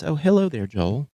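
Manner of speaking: imitating grandma's Texan accent, lightly. Grandmother greeting the grandson in her Texan accent. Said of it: "talked with an accent like this".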